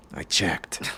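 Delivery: hushed whisper. Acted. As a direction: whisper it so no one hears.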